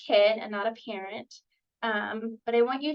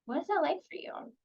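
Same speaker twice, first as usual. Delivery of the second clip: curious; 2 semitones higher than usual. Shown as a demonstration. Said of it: "Some curiosity statements".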